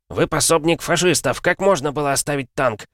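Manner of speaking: high, angry accusing yell; yelling commissar. Acted. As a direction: scream the accusation at the soldier. Commissar berates soldier.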